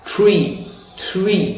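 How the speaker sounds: "tree" with a soft, flowing tr; American TR. Shown as a demonstration. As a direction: let the tongue glide through "tree". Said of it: "It's gonna be like".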